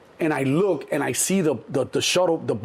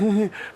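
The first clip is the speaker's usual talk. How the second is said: small, higher-pitched imitated nervous chuckle; nervous laugh; 6 semitones higher than usual. Man embarrassed before onlookers, nervous chuckle. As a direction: chuckle uneasily. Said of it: "I get this nervous laugh".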